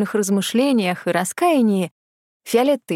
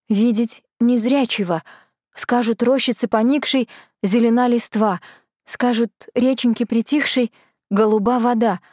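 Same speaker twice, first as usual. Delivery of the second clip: spellbound repeating; 3 semitones higher than usual. Acted. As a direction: repeat it as if bewitched. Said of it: "как заворожённая повторила фея".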